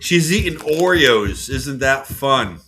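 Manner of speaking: slow, high sing-song to a dog; pet talk. Real, not acted. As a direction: coo it slowly to the pet. Talking about the dog to the dog.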